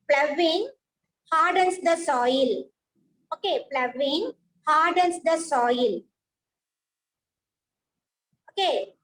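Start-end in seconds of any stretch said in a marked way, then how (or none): 0.1-2.6 hardens the soil said slowly, word by word; slow, careful dictation pace. Shown as a demonstration. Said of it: "I am saying that". 3.7-6.0 ploughing hardens the soil read slowly and clearly; slow teacher dictation. Shown as a demonstration. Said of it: "I am saying that".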